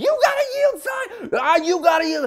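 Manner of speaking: shrill, very high screaming outburst. Retelling a shouting match with a driver who ignored a yield sign: imitating wife screaming. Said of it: "She's screaming as well".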